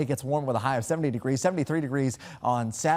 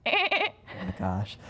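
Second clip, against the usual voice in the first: goat voice; 7 semitones higher, much slower than usual. Acted. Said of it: "sticking around for the goat impression".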